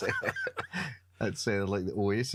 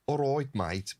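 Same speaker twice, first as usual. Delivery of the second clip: mock Brummie; 5 semitones higher than usual. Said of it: "not a full, like".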